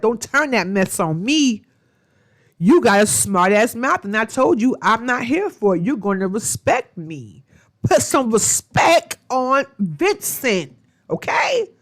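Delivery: rising, emphatic mock scolding, slowing at the end; Vincent putting his foot down. Vincent demands respect from Brianna, in a rising, emphatic mock scolding. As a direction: lay down the law, a little hammed up.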